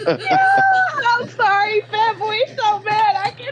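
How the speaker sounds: high-pitched helpless laughter; crying on the phone. Real, not acted. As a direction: laugh till you can't talk. Cracking up at Dutch.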